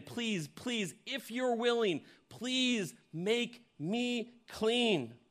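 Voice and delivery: high, very slow pleading please; begging. Retold or imitated. Preacher voicing the desperate leper begging Jesus, high slow plea. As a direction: stretch each please out, desperate. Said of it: "And he's begging him".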